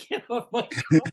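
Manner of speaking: high shouted repeat; mock yell. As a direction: call it down again from the window. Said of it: "he's yelling out the window".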